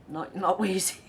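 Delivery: quick unvoiced aside; whisper. Host clarifying which viewer she meant, whispered. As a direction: whisper the correction. Correcting the joke's target.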